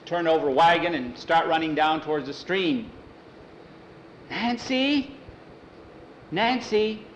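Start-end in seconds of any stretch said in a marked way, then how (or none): 4.3-7.0 calling out. A narrator's reading. Boy calls out searching.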